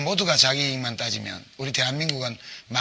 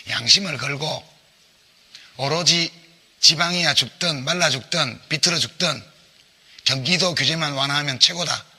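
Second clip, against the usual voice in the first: roaring rallying speech; 3 semitones higher, 4 dB louder than usual. Real, not acted. Heated debate rebuttal.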